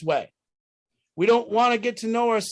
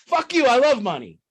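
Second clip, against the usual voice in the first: higher pitched, punchy fuck you; sudden defiant jab, pitched up; defiant outburst; 3 semitones higher, 3 dB louder than usual. Real, not acted. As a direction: throw it back at the critics.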